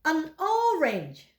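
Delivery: An orange said slowly; slow model pronunciation. Shown as a demonstration. Teacher slowly models An orange for the class. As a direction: stretch An orange out for learners. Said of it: "Mari ikuti saya".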